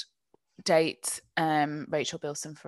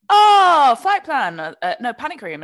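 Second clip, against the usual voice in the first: much higher, louder mock mum voice; imitating mum; 9 semitones higher, 13 dB louder than usual. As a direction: squeal it like an excited mum. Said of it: "my mum … she was like".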